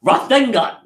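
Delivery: high excited anime yell; yelling the attack name. Retold or imitated. Fan yelling the attack name in a theater, excited shout. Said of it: "I immediately audibly yell".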